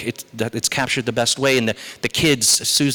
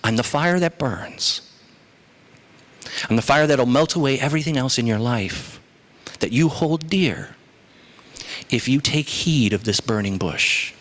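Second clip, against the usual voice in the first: voice of God. Acted. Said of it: "God says to Moses".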